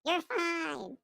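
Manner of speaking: high coaxing peer-pressure voice; mock peer pressure. Friends coaxing a scared stoner into another hit, high and coaxing. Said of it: "You're like".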